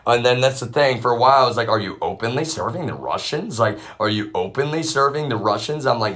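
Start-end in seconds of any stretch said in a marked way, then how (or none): 1.7-5.9 louder retold question, pressed in disbelief; incredulous question. Speaker challenging people over serving the Russians, incredulous question. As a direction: demand it as if you can hardly believe it.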